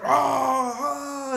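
high, loud scream with a demonic double voice. Retold or imitated. Goku powering up against Jiren, demonic double-voiced scream. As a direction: let Goku's transformation scream rip like a demon. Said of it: "se le oye una voz como de un demonio".

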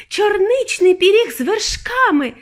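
high, slow, loud relish; delighted raving. A narrator's reading. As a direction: savour it aloud with rapture. Girl raves about taste.

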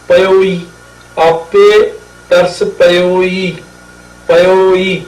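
ਪਇਓਈ slow, ਪਇਓ then a held ਈ; long final ਈ. Shown as a demonstration. Teacher explaining the added vowel, ਪਇਓਈ slowly with a long ending. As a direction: draw out the ਈ closing ਪਇਓਈ. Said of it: "ਇਹ ਫਿਰ ਜਦੋਂ ਈ ਲੱਗੀ".

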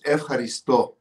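F, haristo, leaning on the final sto; stress on last syllable. Shown as a demonstration. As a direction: demonstrate haristo accented at the very end. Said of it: "the accent's on the last syllable".

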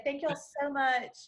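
Texan accent. Shown as a demonstration. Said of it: "I could say".

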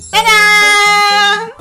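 long high showy ta-da; drawn-out ta-da. Real, not acted. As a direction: stretch out a big reveal. Reveal with plush doll.

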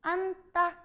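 앉다 said as "an-tta"; pronunciation demo. Shown as a demonstration. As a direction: say 앉다 as "an-tta", keeping only ㄴ. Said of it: "발음 어떻게 하겠어?".

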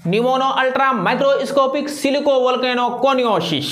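steady slow recital for the class to follow; teacher leading the class to say it together; repeat-after-me pronunciation. Shown as a demonstration. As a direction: lead the class through the word at an even pace. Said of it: "आप बोलेंगे मन ही मन".

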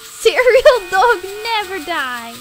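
loud triumphant proclamation; mock-heroic shout; defiant battle cry. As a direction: declare it loudly as an unbeatable hero. Serial dog battle cry.

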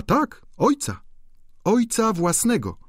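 amused viscountess. A narrator's reading. Viscountess laughingly explains Eugene to the duchess, teasing. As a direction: tease the duchess about him.

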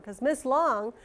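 Miss Long with a drawn-out long O; long vowel drawn out. Shown as a demonstration. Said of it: "says her own name".

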